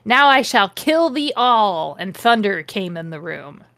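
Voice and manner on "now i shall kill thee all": lightly hammed-up villain threat; a touch of sarcastic villainy; mock evil. Reading the fanfic villain's threat to everyone, mildly mock evil. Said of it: "he cackled evilly and sarcastically at me".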